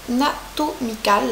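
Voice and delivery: put-on French speaker saying Anatomical with an English accent. Reading a brand name to viewers, mock English accent. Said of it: "avec mon accent English".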